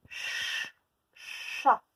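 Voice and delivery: ch, chat soufflés sans voix; chuchoté. Shown as a demonstration. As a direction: souffler le son puis le mot. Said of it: "on entend ch". (sons soufflés)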